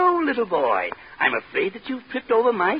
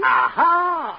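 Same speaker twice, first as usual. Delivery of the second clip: surprised shout; 4 semitones higher, 4 dB louder than usual. Acted. Mock doctor's alarmed exclamation.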